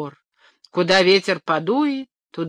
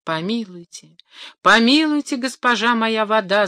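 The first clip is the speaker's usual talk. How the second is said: pleading cry; 4 semitones higher than usual. Acted. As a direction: beg for mercy, rising into a cry. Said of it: "закричал тринадцатый".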